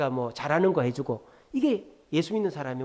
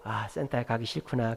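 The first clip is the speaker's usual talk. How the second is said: low, softer acknowledgement; empathizing; 5 semitones lower, 4 dB quieter than usual. Retold or imitated. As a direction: gently reflect the child's feeling back. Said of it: "이렇게 공감해 주는 게".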